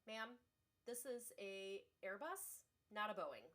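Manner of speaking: polite, professional voice with sarcasm underneath; mock-courteous, slowing into the explanation; sweetly sarcastic. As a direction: retell a sweet, measured put-down to a customer. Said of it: "very sweetly and professionally, but also very sarcastically said".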